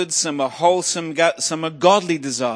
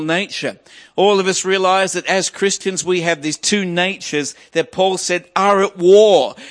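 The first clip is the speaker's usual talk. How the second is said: forceful sermon delivery, key words punched; emphatic preaching; 2 semitones higher, 5 dB louder than usual. Real, not acted. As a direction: drive the scripture home to the congregation. Preaches scripture with rising force.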